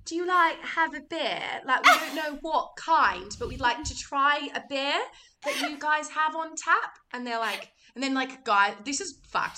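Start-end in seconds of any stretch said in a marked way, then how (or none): 0.0-7.0 higher-pitched pretend British accent; put-on British accent. Teenage girl ordering at the bar, fake British accent. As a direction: ask in a hammed-up British accent. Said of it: "pretend to be British".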